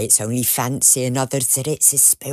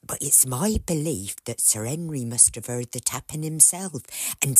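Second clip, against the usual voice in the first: softer, hushed and uneasy; hushed telling; 5 dB quieter than usual. Acted. Housekeeper recounting the haunting to her master, hushed and uneasy. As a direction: tell it like a ghost story at night.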